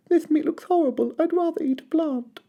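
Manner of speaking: put-on gentle baby dinosaur pleading; little Drip. A narrator's reading. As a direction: apologise like a small shy dinosaur. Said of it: "he said".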